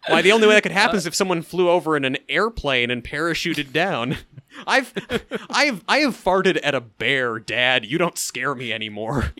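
mock menacing son. A son teasing his bedridden dad, mock menacing. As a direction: lean in with a playful threat.

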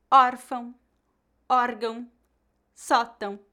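"órfão, órgão, sótão" one by one, first syllable strong and ão weaker; stress on acute accent. Shown as a demonstration. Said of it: "a sílaba com outro acento gráfico será a mais forte".

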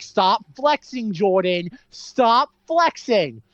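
slow, high drawn-out scolding; a hint of the wife nagging, slowed right down; mock wife. Wife scolding her husband, slow and high. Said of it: "Margot Robbie's like".

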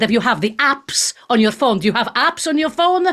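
playful mock Italian accent. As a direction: put on a light Italian accent for fun. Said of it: "let's do the Italian accent".

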